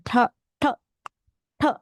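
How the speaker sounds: t, t, t said with the tongue curled back. Shown as a demonstration. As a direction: curl the tongue and sound the t. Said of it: "pronounce the word t with the tongue, tongue curl out".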